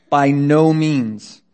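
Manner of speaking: "By no means" drawn out slowly and firmly; emphatic refusal. Acted. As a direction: stretch "By no means" into a weighty denial. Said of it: "It's very, very emphatic".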